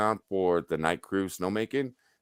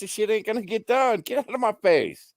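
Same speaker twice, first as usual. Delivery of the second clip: higher and louder, worked-up retort; angry rant; 14 semitones higher, 3 dB louder than usual. Retold or imitated. Young supervisor snapping back at critics, higher and louder. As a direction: fire it back at them hotly. Rant continues after interjection.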